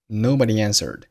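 nobody answered joined by a faint y glide; no break between nobody and answered, light y between; vowel linking. Shown as a demonstration. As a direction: slide from nobody into answered, "nobody-yanswered". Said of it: "Nobody和answered发生了元音连读".

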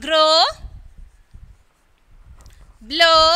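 Grow, blow loud with a long "oh"; O as in tomorrow. Shown as a demonstration. Teacher drilling the tomorrow column, long O demo. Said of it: "Tomorrow, അല്ലേ".

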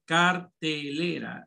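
cartelera slow and split, leaning on LE; stress on LE. Shown as a demonstration. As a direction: sound out cartelera to show the "le". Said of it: "la le".

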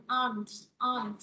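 "on" as one syllable for "are not"; contracted pronunciation. Shown as a demonstration. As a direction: run "are not" together into a single "on". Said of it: "viết tắt đọc thành on". (đọc "on" gọn một âm, dạng viết tắt)

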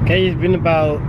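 talking with a numb, sore mouth. Real, not acted. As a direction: speak through a numbed mouth. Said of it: "I sound like a weirdo".

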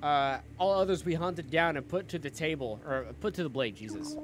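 villain reading. Acted. Reads villain's dialogue aloud.

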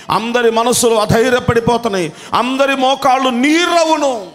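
high, urgent preacher's cry; impassioned preaching. Acted. Preacher warning the church about failing knees, fervent.

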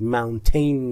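ماونتین ending in a full "tin"; the wrong way, stressing "-tin" in ماونتین. Shown as a demonstration. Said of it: "ولی تینش نگید". (تلفظ غلط ماونتین با تین)

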